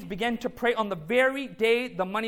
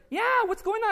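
imitating finance lady; 10 semitones higher than usual. Retelling the finance lady's friendly question.

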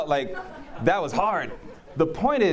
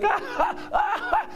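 imitated loud laugh; slower than usual. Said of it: "laugh like that".

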